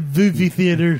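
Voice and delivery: "movie" said as "vuvi"; mock the slip, starting "movie" with a V; "movie" mispronounced on purpose as "vuvi"; mimicked slip. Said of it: "The fuck is the movie theater?".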